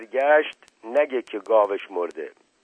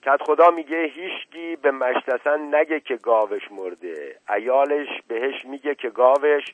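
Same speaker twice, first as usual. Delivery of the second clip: loud announcement; 4 semitones higher than usual. Acted. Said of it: "با صدای بلند به جماعت گفت".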